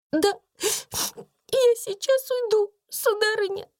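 высоко и робко; покорно пролепетать; дрожа. A narrator's reading. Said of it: "дрожа и приседая". (Бекки уходит, дрожа)

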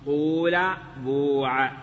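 قول and بوع with a long u, trailing off; pure-damma reading of قول and بوع. Shown as a demonstration. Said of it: "واللغة الثانية الضم".

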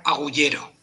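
"agullero" with a Y sound where Spanish has the J; elvish J as Y. Shown as a demonstration. Teacher showing the class how an elf reads "agullero" with a Y sound. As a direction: say "agullero" as an elf would, Y sound, stress on "lle". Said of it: "un elfo probablemente la leería como Y".

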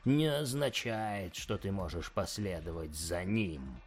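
quiet, slow demonic hiss. Acted. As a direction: hiss it like a chained daemon. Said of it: "зашипел Красный Ангел".

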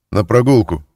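loud guard's order; barked command. A narrator's reading. Guard ordering the prisoner out, loud command. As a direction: shout the order down the corridor. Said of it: "скомандовал выводной".

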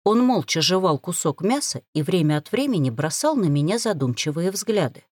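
ordinary delivery

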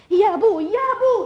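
high, loud cry for father; calling out. Acted. Girl calling her father to escape the suitor, loud. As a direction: shout for help from father.

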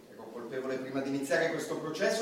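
defiant. Acted. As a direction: throw it back at the judge. Defendant defiant before judge.

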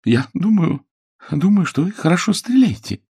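put-on high, nervous girlish voice; young woman caught off guard, nervous; Billy, flustered. A narrator's reading. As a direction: stammer it out high and anxious.

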